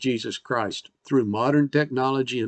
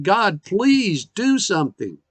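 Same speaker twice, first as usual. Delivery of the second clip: slow, higher, pleading request to God; mild pleading; 5 semitones higher, slower than usual. Retold or imitated. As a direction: beg God gently for help. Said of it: "crying out to God and saying".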